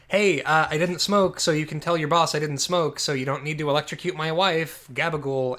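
a loud mock mobster threat; hammed-up gangster from the closet; mobster goon voice. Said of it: "he hears a noise and then is like".

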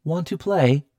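loud, high, menacing machine invitation; high techno voice. A narrator's reading. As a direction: invite them loudly as a sinister talking house. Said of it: "the voice said again".

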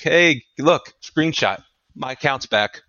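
high, taunting call-out; acted-out triumphant taunt; mock gloating. Imagined gloating at the reporter.

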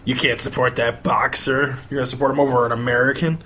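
hammed-up fan scolding; mocking outraged fan. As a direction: parody an indignant patriot. Mocking angry fans.

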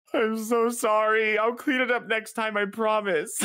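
put-on high, slow, teary drunk voice; high whiny apology. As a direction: play the sorry drunk kid. Drunk friend apologizing after vomiting.

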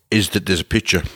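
chewing while talking; mouth full. Real, not acted. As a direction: talk through a bite of bagel. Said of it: "talking with my mouth full".

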